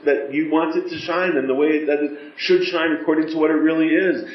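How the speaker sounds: an intimate supplication in prayer; earnest pleading prayer. Shown as a demonstration. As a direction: beg Hashem from far away, sincerely. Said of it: "we gotta get used to saying words".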